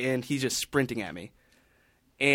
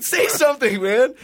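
mock shout; 12 semitones higher, 7 dB louder than usual. Calling out to someone.

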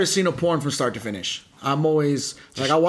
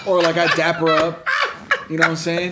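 chuckling through the words; laughing; 4 dB louder than usual. Real, not acted. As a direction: talk while laughing. Laughing at his own joke.

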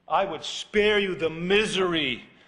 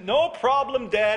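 lazy brush-off; 7 semitones higher, 6 dB louder than usual. Retold or imitated. Son shrugs off dad again.

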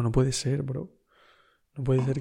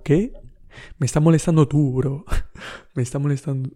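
indignant retort; 4 dB louder than usual. Retold or imitated. Retorting to the manager.

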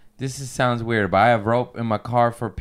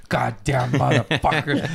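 cussing; 2 semitones higher than usual. Retold or imitated. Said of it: "just cussing".

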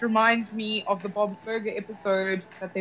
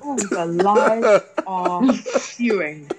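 mock outrage; much slower than usual. Mock outrage at teasing accusations.

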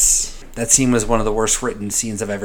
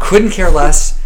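louder, slow, defiant; 4 semitones higher, 6 dB louder, much slower than usual. Acted. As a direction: spell it out, slow and loud. Mock defiance of critics.

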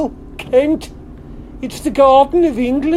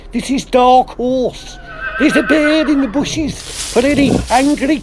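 trucker calling over the CB; radio call, trucker patter; CB radio trucker lingo. Acted. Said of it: "I love the lingo".

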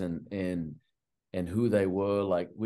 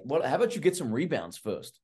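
higher-pitched mocking coach voice; mock coach retort; 6 semitones higher than usual. Assistant mimicking the coach brushing off a player's demand, higher mocking voice. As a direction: toss it back like a sarcastic coach.

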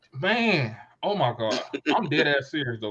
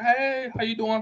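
high, sugary fake-friendly hello; lightly voiced fake-nice greeting; mock friendly greeting; 10 semitones higher than usual. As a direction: put on her fake-nice voice. Voicing the other woman.

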